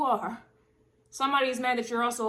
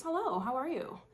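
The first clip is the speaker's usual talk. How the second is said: customer service voice; 4 semitones higher, 4 dB quieter than usual. Retold or imitated. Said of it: "customer service voice".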